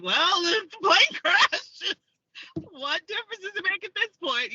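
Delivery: giddy, high-pitched what-the-hell; mock fatalism. Acting out her fatalistic thoughts.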